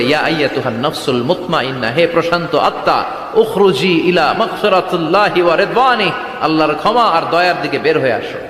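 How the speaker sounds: mildly gentle, measured call to a soul; courteous summons. Acted. Angel of death to a believer's soul, mildly courteous. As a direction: call the peaceful soul out politely, without force. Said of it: "ওর কাছে ভদ্র ভাষায় কথা বলে না".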